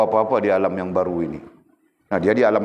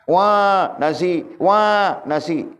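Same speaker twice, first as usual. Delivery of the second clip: put-on higher whiny baby wailing for milk; mock baby crying; 9 semitones higher, much slower than usual. Teacher voices baby wanting rice. (tiruan bayi merengek minta susu, suara tinggi)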